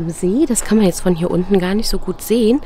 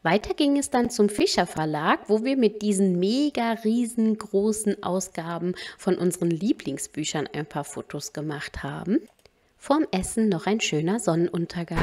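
voice-over narration; 4 semitones lower than usual. Acted. Voice-over recap between live clips.

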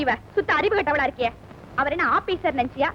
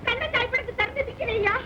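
melengking tinggi, meratap seperti ratapan duka; wailing lament; 2 semitones higher than usual. Acted. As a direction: meraung sedih, suara tinggi dan merintih. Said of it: "ஏன் இப்படி ஒப்பாரி வைக்கிற?".

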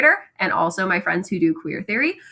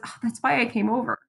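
sassy; 5 dB quieter than usual. Retold or imitated. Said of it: "So Nick is pretty sassy".

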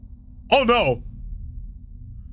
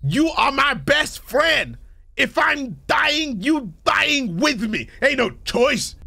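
slow, high singsong mock voice; lightly voiced cute mascot, drawn out; handy pals voice; 8 semitones higher, much slower than usual. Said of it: "what the handy pals all say".

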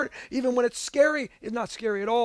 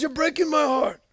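Godfather; 4 semitones higher than usual. Acted. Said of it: "in the Godfather voice".

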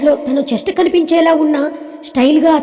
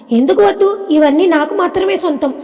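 put-on higher-pitched, mildly indignant child; possessive little girl; 4 semitones higher than usual. Daughter claiming all the chocolates, playfully possessive.

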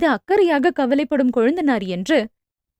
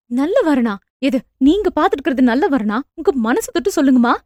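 angry. Acted. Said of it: "அன்னையிடம் கோபமாக கேட்டாள்".

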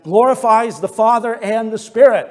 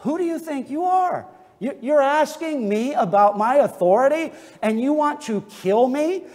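indignant rebuke. Retold or imitated. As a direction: throw the question back at them in disbelief. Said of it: "this is probably the spirit in which he said it".

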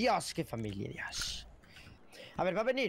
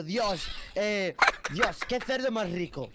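suggestive demo line; 2 semitones higher, slower than usual. Shown as a demonstration. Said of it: "Puedes decir, por ejemplo".

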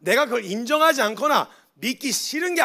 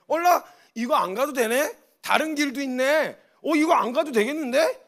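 surprised discovery; 4 semitones higher, 3 dB louder than usual. Acted. Believer discovers another path.

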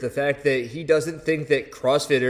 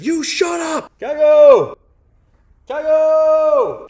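loud, high yell at the dog; scolding shout; 9 dB louder, much slower than usual. Acted. Owner putting fear of God into the dog, scolding shout. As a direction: yell the dog into silence, drawing out the name.

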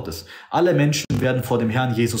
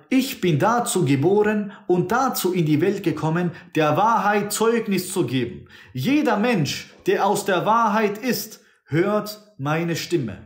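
higher, solemn declaring voice; voicing Jesus; 6 semitones higher than usual. Preacher quoting Jesus to Pilate, lifted and solemn. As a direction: proclaim it slowly and lifted. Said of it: "Dann sagt der Herr".

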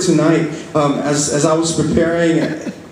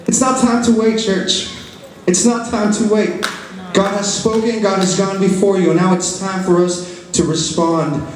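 raised-pitch, earnest preaching to a congregation; 3 semitones higher than usual. Real, not acted. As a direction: press the declaration home in measured phrases.

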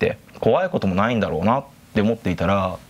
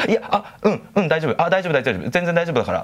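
higher, jittery insistence he's fine; flustered denial; 7 semitones higher than usual. Retold or imitated. Scared friend on phone insisting he's fine, higher and jittery. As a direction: brush it off while clearly shaken.

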